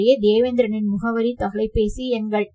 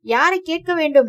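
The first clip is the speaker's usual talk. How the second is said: யாரை hit higher and louder, the whole question raised; sharp raised retort; 6 semitones higher, 3 dB louder than usual. A narrator's reading. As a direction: throw back யாரை கேட்க வேண்டும் in a raised, challenging voice. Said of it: "மறுபடியும் குரலை உயர்த்தி".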